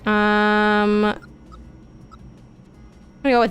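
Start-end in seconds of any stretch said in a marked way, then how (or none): none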